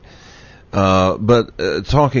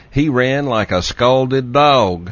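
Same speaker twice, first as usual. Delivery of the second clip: Southern phrase; 3 semitones higher, slower than usual. Shown as a demonstration. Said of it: "let me use a Southern phrase".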